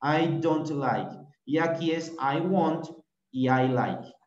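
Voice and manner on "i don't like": slow "I don't like" with the t heard in "don't"; final t in don't. Shown as a demonstration. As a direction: sound the t ending "don't" in "I don't like". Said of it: "Termina como en un t". ("I don't like" pausado, con la t de "don't")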